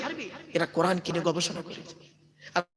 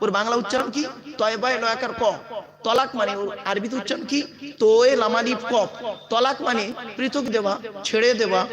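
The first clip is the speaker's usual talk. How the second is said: ordinary delivery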